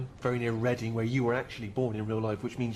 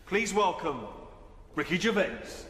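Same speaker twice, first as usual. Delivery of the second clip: announcer introduction; 6 semitones higher, slower than usual. Acted. Announces the guest to the hall.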